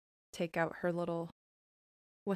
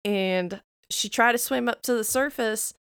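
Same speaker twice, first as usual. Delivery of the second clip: story narration. Acted. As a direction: tell it like a fairy tale by the fire. June continues the campfire story.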